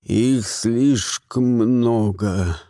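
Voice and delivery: low, slow hoarse wheeze; wheezed. A narrator's reading. Poisoned Grimuel eyeing the saucers, slow low wheeze. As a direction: rasp it out half dying. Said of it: "прохрипел Гримуэль".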